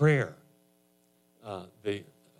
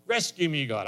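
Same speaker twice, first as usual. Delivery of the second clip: high, loud plea to God; crying out; 3 semitones higher, 4 dB louder than usual. Acted. Cancer patient cries out to God, high and loud. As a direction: call out for rescue. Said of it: "We can cry out a little bit better".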